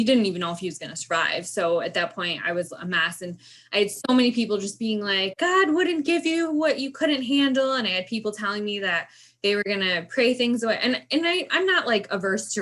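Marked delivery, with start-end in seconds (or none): 5.4-7.7 high, slow, drawn-out imitation of a well-wisher; mock platitude. People telling a struggling parent about God, mockingly pious. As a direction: parrot a pious platitude in a raised, stretched voice.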